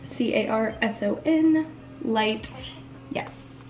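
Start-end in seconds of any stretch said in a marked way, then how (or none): 0.1-1.7 spelled out. Real, not acted. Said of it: "spelling name".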